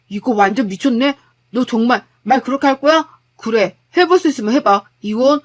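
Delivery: wife demanding divorce in a fury; angry quarrel. Acted. (이혼을 외치는 분노한 아내)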